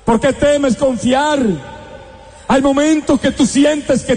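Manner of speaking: building, ringing sermon cadence; fervent preaching. Acted. Preacher promising God's power to the congregation, fervent. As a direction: drive each line home to the faithful.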